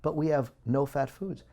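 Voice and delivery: impassioned outcry; heated rant. Real, not acted. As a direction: rail against the food industry, voice climbing. Ranting about sugar in low-fat foods.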